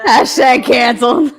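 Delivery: laughing shout. Real, not acted. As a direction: blurt it out through a laugh. Laughing joke about cancel culture.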